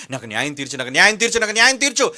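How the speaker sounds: imitating a petitioner, building in pitch and volume; retold insistent plea. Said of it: "ఆవిడ వచ్చి అడుగుతుంది న్యాయాధిపతిని".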